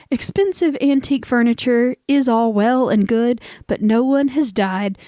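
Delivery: verse read out, slowing at the end; toast recital. Acted. Host reads the next stanza of a toast, lightly declaimed. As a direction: recite the stanza, drawing out the last line.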